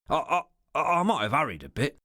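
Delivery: halting, a little out of breath; panting. A narrator's reading. Ricardo excuses his haste to his boss, still panting. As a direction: stumble over the start as if short of breath. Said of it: "still panting".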